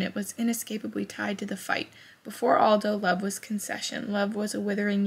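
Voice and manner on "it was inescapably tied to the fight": near tears. Real, not acted. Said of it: "Did I almost start crying".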